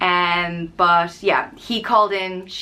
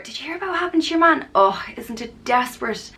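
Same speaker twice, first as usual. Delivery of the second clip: put-on gossipy older woman; 5 semitones higher, faster than usual.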